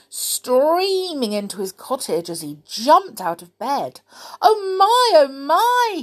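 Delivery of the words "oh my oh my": high, loud, flustered oh my; panicked cries of a man suddenly changed; frantic cry. A narrator's reading. Mister Mean rushing out after his dream, high excited cry. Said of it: "he cried as he rushed".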